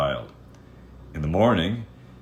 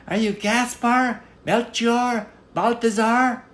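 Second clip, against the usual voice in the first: much higher, louder eager questions; hopeful guesses called out; guessing queen; 8 dB louder, slower than usual. Acted. Queen calls out names to the little man, high and eager.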